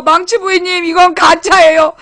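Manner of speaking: imitation of a desperate complaint; imitated tearful pleading. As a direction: plead like a distraught viewer, half-crying. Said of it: "막 처절하게 울고불고 진짜".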